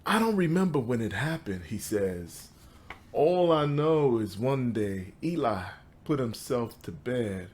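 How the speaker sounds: measured recital with pauses between phrases; poetry reading. Acted. Poet reads to an audience about his father, measured poetry recital. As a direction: lift the line openings, let the endings fall away. Reads second poem aloud.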